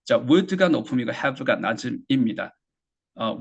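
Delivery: ordinary talk, nothing marked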